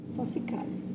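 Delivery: soft whispered "só se cale"; hushed command. Retold or imitated. God telling her to stay silent, whispered. God's voice retold in testimony.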